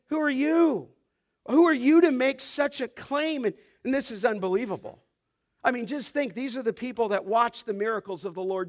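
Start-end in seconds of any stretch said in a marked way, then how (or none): 0.1-3.5 raised, louder scornful question; mocking challenge. Preacher voicing those who answer Jesus' claim, scornful challenge. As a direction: challenge his right to say it. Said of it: "They're mocking him".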